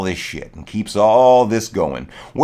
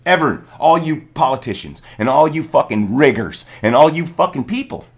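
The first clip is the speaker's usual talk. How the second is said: loud, defiant pretend speech to the government; raised fist, loud and defiant; defiant shout; 2 semitones higher, 4 dB louder than usual. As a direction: shout it like a rallying cry. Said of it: "What if the people said".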